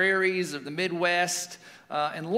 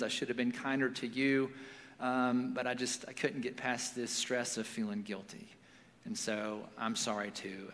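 low, subdued confession, getting softer; quiet, understated apology, sinking lower; tender apology; 5 semitones lower, 7 dB quieter than usual. Retold or imitated. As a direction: gently voice a remorseful father. Father's tender apology in retold story.

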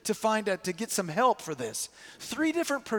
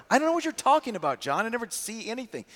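higher, fast, playing dumb; innocent denial; 4 semitones higher, faster than usual. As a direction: feign total innocence. Friends denying knowledge to John.

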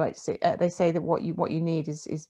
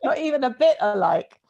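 incredulous Janice; 9 semitones higher, 6 dB louder than usual. Retold or imitated. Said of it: "kind of looked at me and said".

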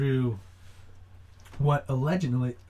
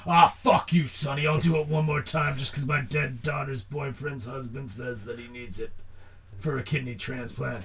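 put-on grumpy old man. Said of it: "scene in any movie".

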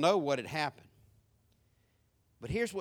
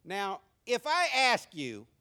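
ordinary delivery

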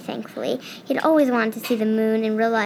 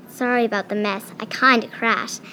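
sheepish. Acted. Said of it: "said the voice sheepishly".

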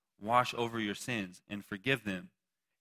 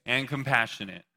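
call to repeat; 2 semitones higher than usual. Shown as a demonstration.

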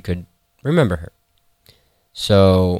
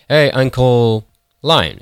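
higher, drawn-out hail; calling out; 6 semitones higher, slower than usual. Acted. Shepherd hailing Uncle Lion, calling out. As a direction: hail him slowly, pitched up.

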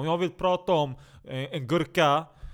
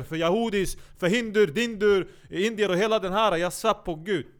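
normal talking voice

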